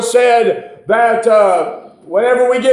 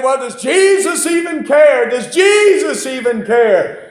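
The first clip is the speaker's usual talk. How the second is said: raised, insistent preacher's version of doubting sisters; questioning mourners; 4 semitones higher than usual. Acted. Preacher voicing Mary and Martha's doubt, raised insistent questioning. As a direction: cry out the doubt, acted from the pulpit. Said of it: "I can imagine Mary and Martha, they're sitting by saying".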